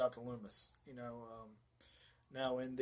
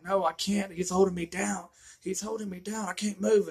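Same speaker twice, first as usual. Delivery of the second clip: higher, louder, half-acted pleading girl; mock panicked Laurie; 6 semitones higher, 4 dB louder than usual. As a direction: play a pinned-down girl begging, lightly hammed.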